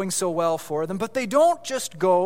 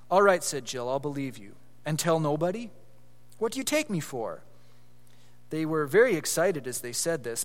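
storybook reading voice with small character voices; story narration. A narrator's reading. Pastor reading Narnia aloud to listeners, in a storytelling voice. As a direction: read the chapter to the congregation, lively and clear.

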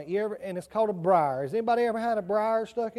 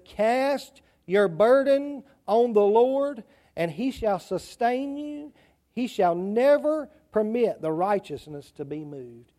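slow, deliberate verse reading; scripture reading; slower than usual. Acted. Preacher reads a Psalm to the children, slow scripture reading. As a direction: read the verse out slowly, phrase by phrase.

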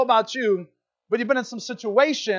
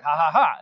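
imitated taunting laugh; 4 semitones lower, 4 dB louder than usual. Older brother pushes him further out, mock laughing. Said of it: "And he laughs".

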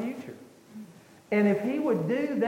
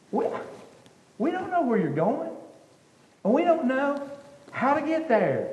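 frustrated Thomas; 6 semitones higher than usual. Acted. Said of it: "Thomas is all frustrated".

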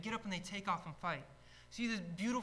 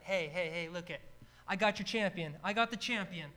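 trash talk; 4 dB louder than usual. Retold or imitated. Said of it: "he's a trash talker".

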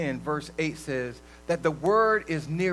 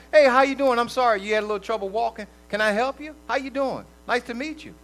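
higher, upbeat mock-polite hello; friendly greeting; 3 semitones higher, 5 dB louder, faster than usual. Preacher playing someone kindly greeting whoever stepped on the shoe, friendly. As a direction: act out a cheerful, apologetic greeting.

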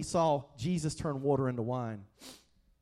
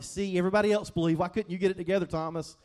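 a hammed-up scolding, louder and fast; mock confrontation, faster and pushier; 3 dB louder, faster than usual. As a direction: wag a finger at Thomas in mock reproach. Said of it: "one of those confrontations like".

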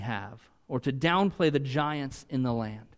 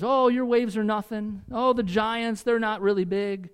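mock dismissive preacher; 6 semitones higher than usual. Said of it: "preach a series that says".

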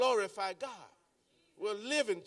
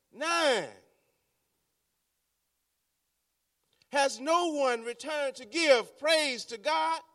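higher, slow, aggrieved questioning as Jesus; Jesus asking; 5 semitones higher than usual. Acted. Preacher voicing Jesus asking for the nine, slow and raised. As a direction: plead the question, slowly. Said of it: "Jesus asks".

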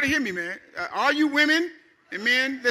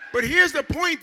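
preaching shout; 5 semitones higher than usual. Real, not acted. Preacher shouts the key point.

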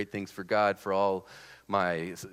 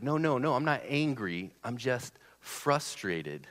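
high, insistent retold protest; imitating someone who insists they are fine; defensive denial; 5 semitones higher, slower than usual. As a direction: pitch up the denials, then draw out the excuse. Acts out denying his anger.

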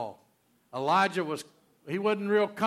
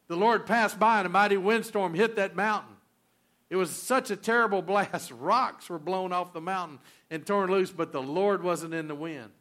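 loud, raised preacher's build through wind, quake and fire; full-force preaching; 4 semitones higher, 5 dB louder than usual. Acted. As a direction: thunder it out from the pulpit. Preaches the storm passage full force.

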